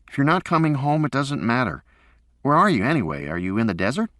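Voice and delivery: put-on a kid pouting at his dad; sulky boy. A narrator's reading. Son sulking to his father about not coming home.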